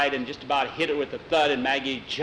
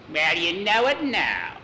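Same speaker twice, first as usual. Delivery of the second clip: witch retort; 4 semitones higher, 3 dB louder than usual. Acted. Witch retorts to Jackie's apology.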